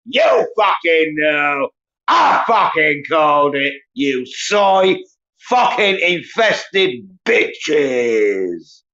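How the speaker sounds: furious shouting. Real, not acted. Streamer screaming abuse at his viewers, real furious yelling. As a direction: scream it at them, full rage.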